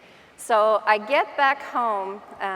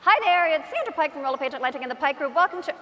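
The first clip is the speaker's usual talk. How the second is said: retaken intro, a bit higher and faster; polished video intro; 4 semitones higher, faster than usual. Retold or imitated. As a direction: try the intro again, more polished. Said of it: "I gotta do it again".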